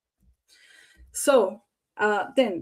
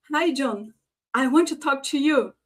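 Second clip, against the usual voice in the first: higher, livelier greeting; upbeat emotion; 4 semitones higher, 4 dB louder than usual. Shown as a demonstration. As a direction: greet John with energy, pitched up. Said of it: "you show an emotion".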